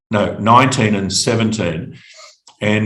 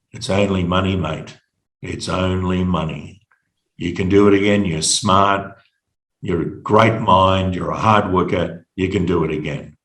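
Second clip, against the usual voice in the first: lower, gently steadying voice; retold consoling words, low and unhurried; 4 semitones lower than usual. Mentor consoling him, arm around shoulder.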